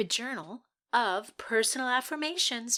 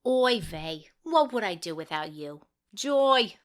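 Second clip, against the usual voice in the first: put-on a lower, lightly Jewish-accented read; 3 semitones lower than usual. Actress showing off her Jewish accent to the panel, lightly done. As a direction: play it with a Yiddish lilt. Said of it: "Or Jewish".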